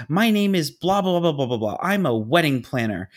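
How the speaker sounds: mock rant that starts high and loud; imitated screaming. Irate planner introducing herself by phone, mock screaming. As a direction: announce yourself like an outraged caller. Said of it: "she starts screaming and she goes".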